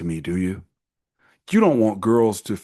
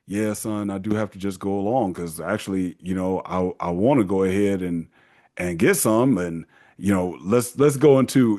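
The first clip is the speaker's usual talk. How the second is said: resigned dad; 5 semitones lower than usual. Retold or imitated. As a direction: sigh it out to your son, beaten down. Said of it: "your dad is like".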